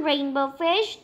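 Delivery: Rainbow Fish called out with a rising tune on fish; friends calling. Acted. Other fish calling Rainbow Fish to play, rising call. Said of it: "they would call".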